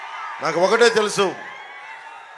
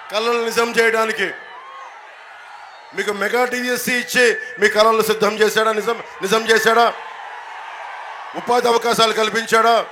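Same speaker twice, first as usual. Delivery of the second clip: fiery rally speech; 3 semitones higher than usual. Acted. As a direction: hammer each question at the crowd. Attacks rival at rally.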